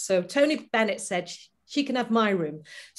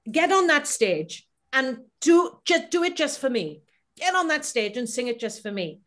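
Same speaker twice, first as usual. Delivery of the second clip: A singer encouraging; 5 semitones higher than usual. Retold or imitated. Urging the singer to sing just for her, higher and coaxing. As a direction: coax her onto the stage.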